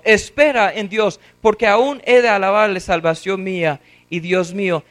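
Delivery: steady self-exhortation at a normal pitch; a lighter, even-toned self-sermon; preaching to himself. Acted. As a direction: remind yourself calmly to hope. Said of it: "Está predicando ahora a sí mismo".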